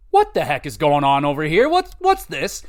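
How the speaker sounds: what on earth am I seeing; shocked confusion. Retold or imitated. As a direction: voice leaps up in disbelief. Seeing the street dominatrix scene.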